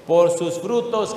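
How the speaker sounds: slow, weighty reading of Scripture; deliberate preacher cadence; slow emphatic reading. Acted. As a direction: lean on each word, unhurried. Preacher reads key verse slowly.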